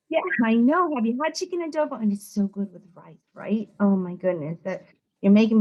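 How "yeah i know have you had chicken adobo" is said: brighter, fast eager reply; happy to chat about food; friendly enthusiasm. Retold or imitated. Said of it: "But I was like".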